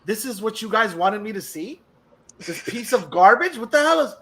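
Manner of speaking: slow, sneering disdain at a bad episode; condescending. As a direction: drag it out like it's beneath you. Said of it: "it wasn't totally condescending".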